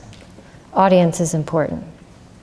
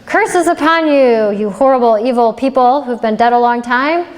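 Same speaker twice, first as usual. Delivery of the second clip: mock cursing yell; 4 semitones higher than usual. Young monk abusing the dead at the cemetery, hammed-up yelling. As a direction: rail at the graves in mock outrage. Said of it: "starts yelling mean things".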